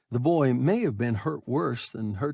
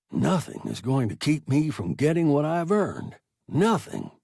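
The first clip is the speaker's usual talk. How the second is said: swearing aloud; 4 semitones higher, 4 dB louder than usual. Acted. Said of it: "He was swearing aloud".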